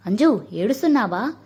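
plain reading voice

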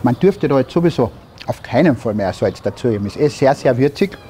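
talking with a mouthful; words around a bite of food; mouth full. Real, not acted. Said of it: "mit vollem Mund spricht man nicht".

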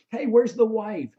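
cheerful call. Retold or imitated. A singer asks cheerfully.

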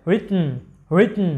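রিটেন with the T stopped, no release; stop T demo. Shown as a demonstration. Teacher modelling how native American speakers say it. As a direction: hold the T in রিটেন and glide to n. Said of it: "American native স্পিকাররা এরকম করে sound করে".

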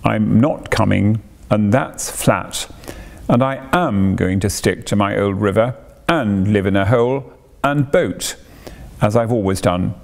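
dogged. Acted. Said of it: "said the rat doggedly".

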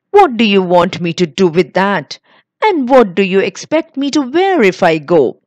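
sharp, rising complaint; angry. Acted. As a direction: snap it out in resentment. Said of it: "So angrily".

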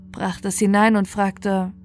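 plain reading voice

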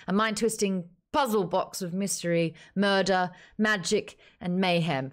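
a hint of a grand audiobook narrator; lightly voiced epic blurb reading; narrator's voice. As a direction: read it like the dramatic book narrator. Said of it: "I'm gonna do it in the narrator's voice".

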